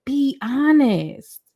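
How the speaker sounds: slow, drawn-out plea with a laugh breaking in; slow pleading with a half laugh; pleading for honesty. Retold or imitated. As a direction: beg him to just be honest, slowly. Woman begging partner for honesty.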